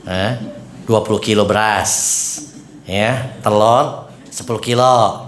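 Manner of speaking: slow, boastful listing of gifts; lightly voiced bragging donor; mock show-off giver. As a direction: play a donor bragging about her charity. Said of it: "nggak usah perlu sebut-sebut".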